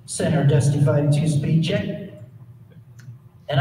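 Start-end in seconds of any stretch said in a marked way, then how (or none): 0.1-2.1 a lightly voiced clipped Navy pilot; cool Navy pilot. Navy F-18 pilot calling Center, lightly voiced cool. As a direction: keep it cool and terse on the radio. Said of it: "he talked very cool on the radio".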